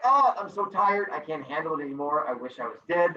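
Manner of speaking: lightly voiced worn-out old man; weary old man. Teacher plays old man in fable, mildly weary. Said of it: "The old man is like".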